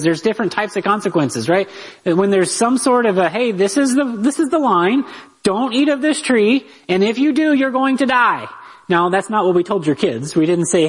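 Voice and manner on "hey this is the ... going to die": a hint of a solemn God. Preacher voicing God's warning in Eden, mildly solemn. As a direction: lay down the law like God in Eden, a touch grand. God's command voiced as quote.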